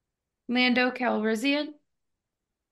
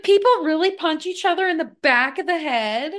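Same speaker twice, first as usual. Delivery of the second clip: higher-pitched, disbelieving question; incredulous; 5 semitones higher than usual. Retold or imitated. Retelling a reaction to learning about boxing fouls, incredulous. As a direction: replay your appalled astonishment.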